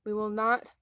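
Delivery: showing viewers how to say the pledge; declaiming. Shown as a demonstration. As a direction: start the pledge again with conviction. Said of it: "say it just like this".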